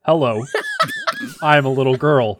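put-on man putting on a little girl voice. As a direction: squeak it out like a small girl. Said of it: "your voice, please, the, the girl voice".

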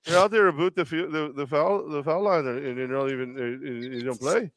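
put-on meek, rambling Canadian accent; polite Canadian coach fumbling through a gentle complaint; Canadian impression. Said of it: "I did the Canadian accent with the boot".

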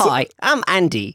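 lightly voiced guide greeting; imitating Andy. S0 greets S1 as the meditation monk, lightly voiced. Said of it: "impression of how this man speaks".

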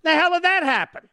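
a baffled double take at the news; mock disbelief at the result; surprised.

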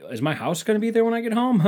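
high-pitched panicky laugh through the words; nervous laughing. Acted. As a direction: act out nervous laughter, voice climbing. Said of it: "nervous laughing".

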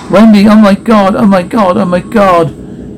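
losing it as the chaos hits; panicked repetition. Acted. Terrified player reacting to glass shattering and screams, panicked.

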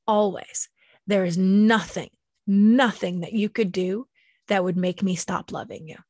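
rock her with the words; tender reassurance. Acted. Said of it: "I said to her".

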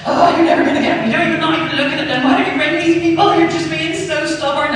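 high, fast, frantic nagging; panicking mum. Retold or imitated. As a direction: play the worried mum pleading in a rush. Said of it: "My mum was panicking".

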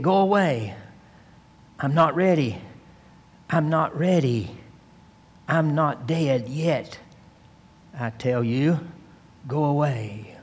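mildly acted dread, pleading to be left alone; half-hammed fearful plea of a dying man; retold terror. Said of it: "sharp, shrieking voice of terror".

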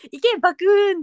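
loud, high trainer's cry; calling out a battle command. Retold or imitated. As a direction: send your monster into battle with a shout. Pokémon-throwing call in retold dream.

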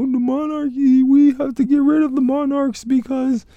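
high, loud TV anchor voice; news reporter voice. Acted. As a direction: read it like a breaking news anchor. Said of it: "my news reporter voice".

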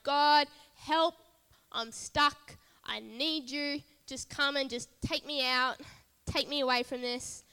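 loud, high, pleading cry for rescue; desperate plea to God. Retold or imitated. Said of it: "I'm like".

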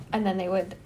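talking through hiccups; interrupted by a hiccup. Real, not acted. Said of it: "I have the hiccups again".

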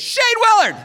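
high, loud challenge yell; calling out. Acted. Big kid challenging him before a fight, hollering. Bully calls him out in story.

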